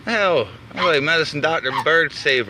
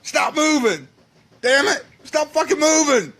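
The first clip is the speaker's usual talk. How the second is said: frantic shout; 7 semitones higher than usual. Real, not acted. Man yelling at the flapping bird, frantic shout. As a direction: yell at the bird to hold still.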